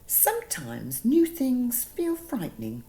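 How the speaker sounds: kind. Acted. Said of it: "she said kindly".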